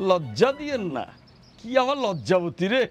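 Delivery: drawn-out sarcastic teasing; mocking echo. Rich in-law throws back a plea not to shame, mocking.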